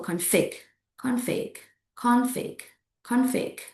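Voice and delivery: CONFLICT as con-FLICT; weight on FLICT in CONFLICT; verb stress, second syllable. Shown as a demonstration. Teacher models the verb form, stress on FLICT. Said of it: "the meaning is a verb".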